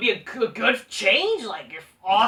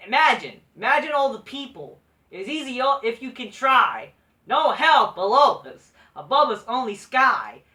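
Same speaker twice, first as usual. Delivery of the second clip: loud, deliberately unconvincing singer impression; badly faked impression, punched out loudly; a famous singer; 2 semitones higher, 6 dB louder than usual. Shown as a demonstration. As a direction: belt out the lyrics in your own voice. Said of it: "talk like a famous singer, and I'm not".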